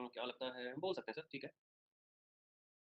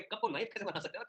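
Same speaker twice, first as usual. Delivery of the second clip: amused disbelief; 5 semitones higher than usual. Real, not acted. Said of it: "मेरे को तो हंसी आ रही है".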